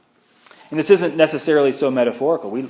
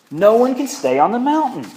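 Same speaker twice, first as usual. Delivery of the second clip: higher and louder, preaching the point; emphatic proclamation; 8 semitones higher, 6 dB louder than usual. Real, not acted. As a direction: drive the line home to the congregation. Sermon's emphatic turning point.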